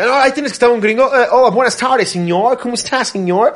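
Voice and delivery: high, mock American accent in Spanish; gringo accent Spanish. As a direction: imitate a gringo speaking Spanish. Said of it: "así habla él". (acento gringo exagerado)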